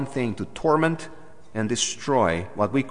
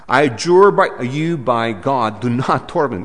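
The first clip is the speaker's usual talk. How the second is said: pleading demon; 5 dB louder than usual. Retold or imitated. Preacher voicing the demon's loud plea to Jesus. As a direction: cry out like a begging demon.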